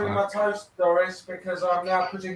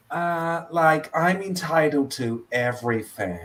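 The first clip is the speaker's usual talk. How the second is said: put-on Californian accent; 2 semitones lower, 4 dB quieter than usual. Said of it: "my Californian accent".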